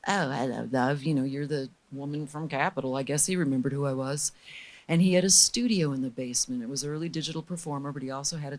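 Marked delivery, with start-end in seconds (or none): 0.1-3.0 lightly imitated English Jamaican accent. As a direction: lower English Jamaican voice, relaxed. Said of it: "this English Jamaican dude".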